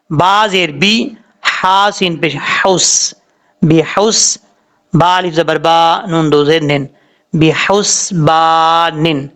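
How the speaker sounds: بحسبان spelled letter by letter, slow, ending stretched; spelling out. Shown as a demonstration. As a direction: spell it out syllable by syllable. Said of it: "پڑھنا اس کو کہنی ہے". (حرف حرف ہجے کر کے)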